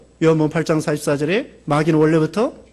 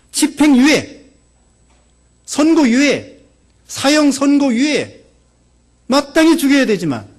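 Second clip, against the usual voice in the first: higher, rising intensity; impassioned preaching; 4 semitones higher than usual. Real, not acted. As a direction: drive home the death sentence. Preacher building to climax. (열정적으로 고조되는 설교)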